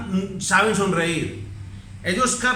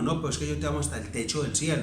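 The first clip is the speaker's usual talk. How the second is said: put-on child outdoing parent; 6 semitones lower, 8 dB quieter, faster than usual. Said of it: "le dice el hijo a uno".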